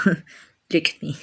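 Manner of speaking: slow, giggling self-mockery; laughing at herself. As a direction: laugh through it, embarrassed. Angel laughs at her rambling.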